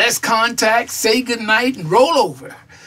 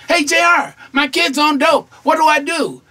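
lightly voiced worried caller, pitched higher; advice seeker; 5 semitones higher than usual. Parent asking J R about a kid on dope, lightly acted plea. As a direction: call out higher, as if asking for help. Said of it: "people are asking me for advice".

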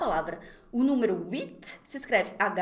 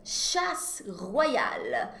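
slow repeat; 3 semitones lower, much slower than usual. Shown as a demonstration. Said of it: "repeats title slowly".

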